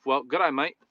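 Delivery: lightly put-on Aussie greeting; a hint of mock Australian; mock Australian accent. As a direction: toss off an Australian catchphrase. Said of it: "It's from Dumb and Dumber".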